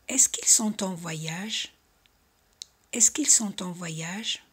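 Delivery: Est-ce qu'ils sont en voyage said slowly and clearly; slow model reading. Shown as a demonstration. Teacher reading slowly for students to repeat. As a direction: spell it out for learners. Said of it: "Repetir conmigo".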